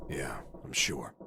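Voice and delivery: hushed, slow whisper. Acted. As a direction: whisper it, numb with grief. Grim confirmation.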